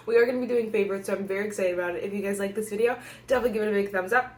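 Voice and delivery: rushing, short of breath; racing through on the last breath; running out of air. Real, not acted. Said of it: "I'm running out of breath".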